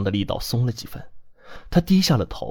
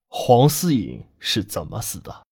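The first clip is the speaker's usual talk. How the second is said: slow, deliberate questioning; repeated demand; slower than usual. Acted. Man repeating his question to the girl, slow and insistent. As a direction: repeat the question slowly, word by word. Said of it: "他重复着问我".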